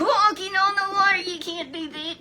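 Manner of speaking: amazed exclaim. Retold or imitated. Grandparent marvels to Chesley at the water walk, amazed. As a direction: marvel at the impossible.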